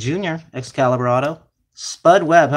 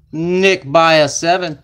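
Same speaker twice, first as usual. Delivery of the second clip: drawn-out, louder name call; stretched, louder announcer-style call; slow hype call; 2 semitones higher, 5 dB louder, slower than usual. Real, not acted. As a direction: announce the winner slowly. Calling who got the card.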